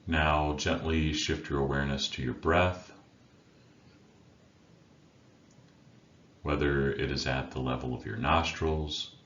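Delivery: unhurried meditation guide with long pauses between phrases; guided meditation. Acted. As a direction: guide listeners inward, leaving silence after each instruction. Leads a meditation.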